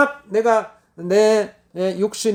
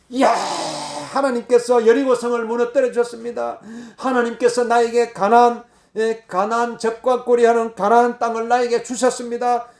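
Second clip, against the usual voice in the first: victory cry; 3 semitones higher than usual. Shown as a demonstration. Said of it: "큰 소리로 외칠 수가 있어야 돼요".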